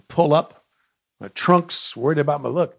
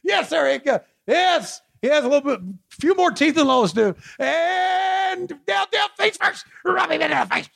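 high, hyped-up play-by-play; frantic mock sports commentary; 13 semitones higher than usual. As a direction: call it like a frantic announcer.

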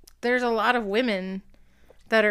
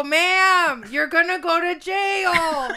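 higher and louder, the jail part slow and heavy; mock stern threat; 7 semitones higher, 4 dB louder, much slower than usual. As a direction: lay down a caller's bullying threat. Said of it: "he would go".

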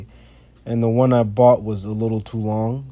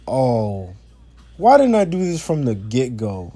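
exasperated realisation; 2 semitones higher, 4 dB louder than usual. Retold or imitated. Speaker recalling fixing the bumper screws, mock exasperated. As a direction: replay your own belated "oh" moment, pitched up.

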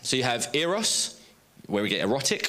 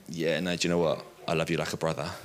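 sheepish; 6 semitones lower than usual. Acted. Peter backing down from his boast.

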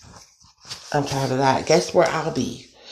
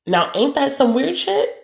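much higher, indignant disbelief; can't-believe-it exclamation, pitched way up; incredulous outrage; 10 semitones higher than usual. Real, not acted. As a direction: fling it up high in disbelief. Outrage at organ harvesting.

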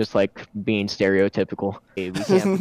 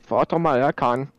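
put-on botched British accent, pitched higher; bad British accent; 4 semitones higher than usual. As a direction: try a British accent and miss it badly. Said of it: "my attempt at a British accent".

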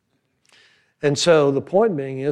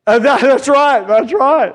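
laughing; 9 semitones higher, 7 dB louder, slower than usual. Real, not acted. Laughing at his own story.

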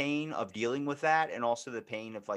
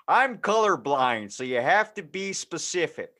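clueless dad. Acted. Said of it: "that dad that doesn't actually know".

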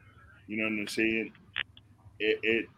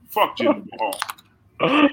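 shouted curse at the wrestler; loud insult; 8 semitones higher, 6 dB louder than usual. Real, not acted. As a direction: yell it with contempt. Wrestling fans trash a rival.

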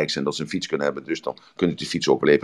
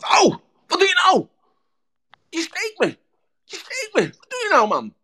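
turtle cries out in pain. Acted. Turtle stung by the scorpion halfway across, high pained cry. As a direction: shriek it out like you've just been stung.

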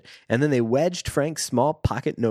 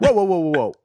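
mock alarm; 4 semitones higher, 6 dB louder than usual. Real, not acted. Mock alarm at racist line.

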